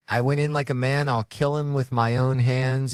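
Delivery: high, slowed, worked-up boast; hammed-up indignant confession; mock outburst. Bundy breaking under questioning, mock indignant.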